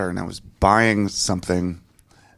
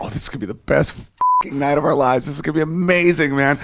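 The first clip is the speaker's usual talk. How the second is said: excited anticipation; 5 semitones higher than usual. Retold or imitated. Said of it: "I'm like".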